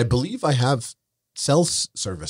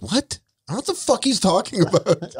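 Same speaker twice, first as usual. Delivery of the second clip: much higher hammed-up baffled voice; imitating Keem; 11 semitones higher than usual. Retelling Keem's reaction to Wings, high mock bafflement. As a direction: play up Keem's clueless denial. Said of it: "And Keem was like".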